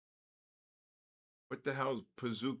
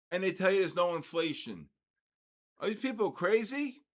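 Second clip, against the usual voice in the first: higher, rising outrage at prices; indignant disbelief; 6 semitones higher than usual. Real, not acted. Father fuming to the host about ice cream prices, indignant. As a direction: rant about what a scoop costs.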